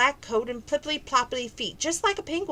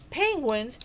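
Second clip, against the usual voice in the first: mildly puzzled, asking the word back; lightly questioning the strange word; 2 semitones higher than usual. Acted. Polar bears hearing an unknown word, mild puzzled question. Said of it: "cried the polar bears".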